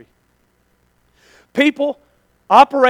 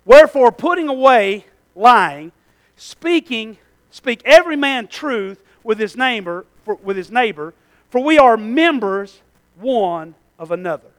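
scripture reading; 4 dB louder, slower than usual. Shown as a demonstration. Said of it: "Listen to this".

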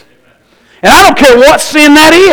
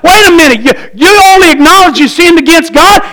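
higher, puzzled objection to the text; incredulous question; 6 semitones higher than usual. Retold or imitated. Preacher voicing his puzzlement at the psalm, incredulous. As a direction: question it like you just caught something. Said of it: "I'm looking at them like".

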